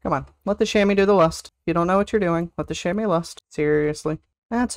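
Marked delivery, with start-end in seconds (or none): none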